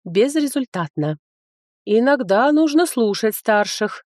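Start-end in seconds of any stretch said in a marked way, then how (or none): 1.8-4.0 slow, preachy elder tone; lecturing. Acted. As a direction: lecture her like a stern elder. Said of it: "назидательно сообщила".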